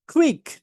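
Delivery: "কুইক" high and short, falling; model pronunciation. Shown as a demonstration. Teacher drills the next word, model pronunciation. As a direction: punch "কুইক" with a puffed K. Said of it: "এইবার এইটাকে উচ্চারণ করি".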